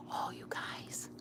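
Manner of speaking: hushed whisper. Real, not acted. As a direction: whisper it so nobody hears. Whispering so neighbor won't hear.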